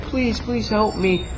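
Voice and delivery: high-pitched, drawn-out imitation plea; hammed-up begging in a high, slow voice; mock pleading. Survivor begging the four horsemen, mock pleading.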